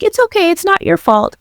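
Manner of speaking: high-pitched soothing reassurance; retold comforting, voice lifted well up. Patient consoles the nurse who broke bad news, comforting. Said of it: "I'm, like, comforting the people around me".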